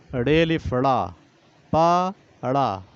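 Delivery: डेली फड़ा, पा अड़ा spelled out slowly, syllable by syllable; slow spelling out. Shown as a demonstration. Teacher to class, slowly spelling the word. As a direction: sound out each part. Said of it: "इसको कैसे पढ़ाएंगे बच्चों को".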